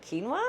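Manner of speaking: quinoa as KEEN-wah, testing it; quinoa said KEEN-wah, rising. Shown as a demonstration. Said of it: "How do you pronounce that?".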